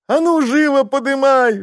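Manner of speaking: high, loud, grating order; wife bawling orders at husband; nasty bawling. Acted. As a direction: bawl at him to pick it up now. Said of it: "завопила противным голосом баба".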